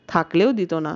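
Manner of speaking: mildly sarcastic, understated; lightly mocking the sister's husband; a touch of sarcasm. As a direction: let a little scorn show. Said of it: "মিতালির গলায় বিদ্রুপ ফুটল".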